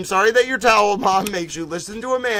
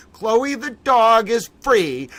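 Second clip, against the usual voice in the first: triumphant; 4 semitones higher, 4 dB louder, slower than usual. Real, not acted. Triumphant announcement of freedom.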